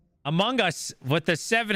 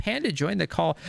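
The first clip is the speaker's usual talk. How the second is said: ordinary delivery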